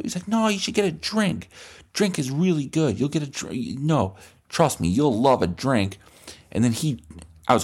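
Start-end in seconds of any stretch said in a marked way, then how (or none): 0.3-6.0 put-on high coaxing kid voice; lightly voiced pushy kid; pushy cool kid. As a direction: insist warmly, pitched up.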